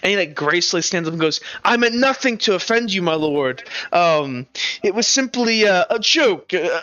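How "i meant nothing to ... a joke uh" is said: mildly scared minstrel keeping composure; nervously apologetic. Acted. Minstrel apologises to a lord for a bad joke, mildly nervous. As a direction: apologise carefully, hiding a touch of fear. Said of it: "like, scared".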